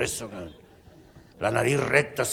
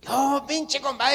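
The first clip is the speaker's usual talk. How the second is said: loud greeting; 11 semitones higher, 4 dB louder, slower than usual. Acted. Compadre greets his friend loudly.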